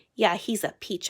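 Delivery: cutting, biting, ironic sarcastic tone. Reading a story, the narrator answers the principal: cutting, sarcastic tone. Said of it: "with cut in my voice".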